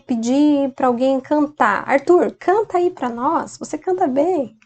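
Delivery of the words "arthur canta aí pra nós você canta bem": teacher voicing an encouraging request; friendly request. Shown as a demonstration. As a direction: coax Arthur to sing. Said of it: "Se eu quero dizer".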